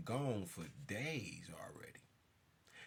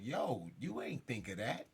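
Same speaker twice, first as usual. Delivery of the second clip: retold confrontation; 4 dB louder than usual. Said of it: "I'm like".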